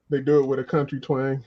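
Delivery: "do it with a country twang" said through a laugh. Real, not acted.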